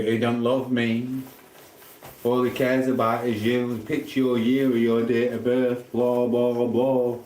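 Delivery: slow, drawn-out mock whine; singsong mimicking of a moan; mock complaint.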